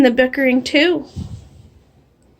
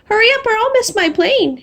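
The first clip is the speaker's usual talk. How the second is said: urgent plea; 8 semitones higher than usual. Acted. Woman urging taxi driver.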